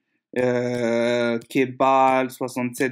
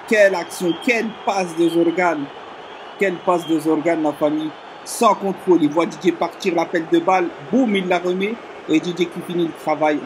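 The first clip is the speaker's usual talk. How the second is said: esports caster; 2 semitones higher than usual. Acted. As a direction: relive the goal with awe. Replay commentary.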